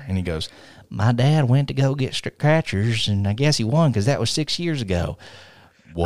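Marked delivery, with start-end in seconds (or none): 0.9-5.2 The speaker, mock emotional. He tells Tony about his dad, mock emotional. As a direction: draw it out with mock feeling. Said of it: "has a really emotional moment".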